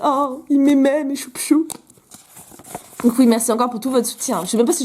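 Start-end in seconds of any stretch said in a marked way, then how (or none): 0.0-1.7 petite voix de mamie attendrie, plus aiguë; vieille mamie. Acted. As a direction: joue la mamie émue, pour rire. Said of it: "quand je serai une vieille mamie". (vieille mamie attendrie, imitée)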